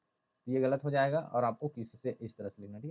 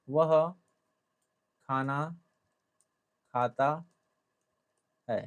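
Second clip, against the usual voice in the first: slow dictation; slower than usual. Shown as a demonstration. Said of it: "अब ये use कैसे होता है".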